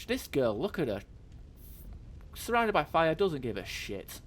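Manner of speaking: high, loud exclamation easing off; amused amazement. Real, not acted. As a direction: exclaim it loudly, then draw out the end. Marvelling at unbothered painter amid fire.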